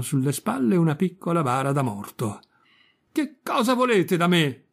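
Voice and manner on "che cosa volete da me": frightened cry. A narrator's reading. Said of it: "gridò Pinocchio".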